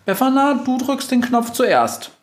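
bossy little mouse; indignant mouse. A narrator's reading. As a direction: order her in a tiny high voice. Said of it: "sagt die Maus empört".

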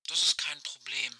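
like a far-off voice over a walkie-talkie; old rotary phone. Acted. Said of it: "sagt Aische".

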